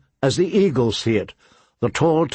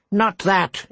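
mock shriek; 7 semitones higher than usual. A narrator's reading. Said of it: "it shrieked at him".

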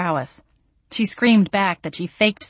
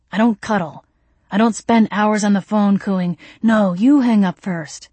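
emphatic; 3 semitones higher, 6 dB louder than usual. A narrator's reading. Gabriel listing what he won't do.

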